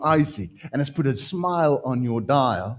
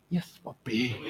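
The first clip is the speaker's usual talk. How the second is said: laughing; 2 semitones lower, 9 dB quieter than usual. Real, not acted. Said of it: "I'm like".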